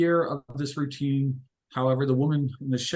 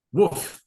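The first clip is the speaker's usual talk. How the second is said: quick imitated dog bark, pitched up; interrupting woof; 4 semitones higher, 4 dB louder than usual. A narrator's reading. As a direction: cut in with a spoken woof. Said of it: "The dog interrupts".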